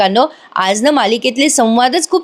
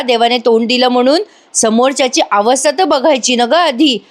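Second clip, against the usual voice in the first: mildly indignant telling-off, slightly raised pitch; retold angry scolding; 2 semitones higher than usual. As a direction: act out a scolding without shouting. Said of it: "Kavya संतापते आरुषीवर आणि म्हणते". (रागावून झापल्याची हलकी नक्कल)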